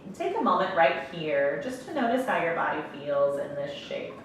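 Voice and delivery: calm meditation guide, long pauses between phrases; guided meditation. Real, not acted. Yoga instructor guiding breath and closed eyes, calm meditation voice. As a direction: ease them gently into stillness, leaving space to breathe.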